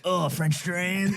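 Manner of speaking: high, long-drawn mock dismay; hammed-up, drawn-out disapproval; mock distaste. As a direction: imitate people recoiling, stretching each word slowly. People reacting with dislike to drains.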